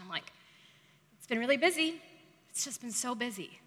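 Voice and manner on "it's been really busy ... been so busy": self-parody of the overworked victim; asking for compassion. Shown as a demonstration. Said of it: "the way I say it is the ask for compassion".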